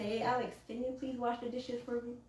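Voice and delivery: gentle request. Shown as a demonstration. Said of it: "change the tonage".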